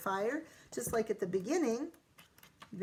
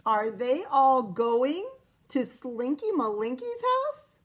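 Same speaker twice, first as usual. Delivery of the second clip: surprised question; 2 semitones higher, 6 dB louder than usual. Real, not acted. Reader surprised where the cats are heading. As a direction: gasp out the discovery. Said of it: "Wait a minute".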